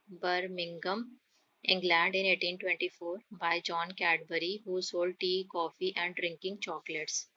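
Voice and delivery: very slow, word by word, for pupils to write down; slow dictation. Acted. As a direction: read it out slowly so the class can copy. Slow dictation of Cadbury story.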